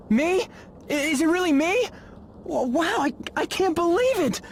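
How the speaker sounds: breathless, high, stuttering joy; stunned excitement. Acted. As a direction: gush like you just won the lottery. Winner told he was chosen.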